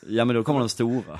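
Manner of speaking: laughing as you answer a tease; laughing reply. Real, not acted. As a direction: joke back through a laugh. Joking back after interviewer's teasing.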